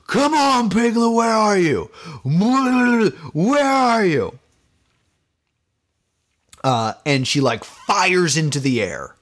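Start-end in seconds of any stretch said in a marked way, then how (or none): 0.1-4.4 high, hammed-up sing-song calling for Piglet, last line slow; mock menacing calling. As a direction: play a killer calling out to her prey. Girl hunting Piglet with gun.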